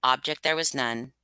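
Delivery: unhurried dark storytelling; story reading. Acted. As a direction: read it like a nervous narrator insisting he's sane. Reads Poe's Tell-Tale Heart aloud.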